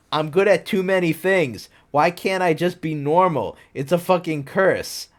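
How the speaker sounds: mock shout. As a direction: whine it up high like a teen. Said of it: "I shouted".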